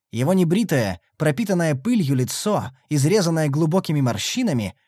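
plain reading voice

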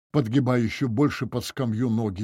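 ordinary delivery

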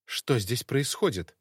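slow, hard demand; harsh tone. Acted. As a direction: cut her off coldly. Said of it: "Жёстким тоном прервала Ирина". (жёстким тоном)

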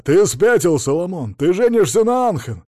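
гневный крик; furious outburst. A narrator's reading. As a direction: swoop on him like an eagle, raging. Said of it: "орлом налетел на адвоката".

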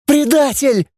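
high rasping cry of betrayal; hoarse cry. A narrator's reading. Claude hitting her brother, a hoarse high cry. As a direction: rasp it out while hitting him. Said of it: "захрипела Клод".

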